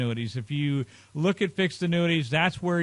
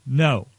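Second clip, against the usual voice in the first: "no" dropped low and much louder; emphatic no; 4 semitones lower, 6 dB louder than usual. Real, not acted. Adviser answers whether it's your money, emphatic "no". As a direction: land "no" low and hard like a verdict. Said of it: "The answer to that is emphatically".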